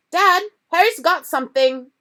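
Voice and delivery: high loud tattle; spoiled son snitching to dad; tattling boy. A narrator's reading. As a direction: tell on him eagerly. Dudley telling on Harry.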